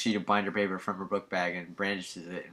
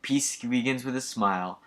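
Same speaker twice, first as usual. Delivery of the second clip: lightly voiced saintly preacher, mock serene; a hint of a syrupy saint, slowing on wars; Mother Teresa; 2 semitones higher than usual. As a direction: preach peace with mock sincerity. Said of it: "Mother Teresa".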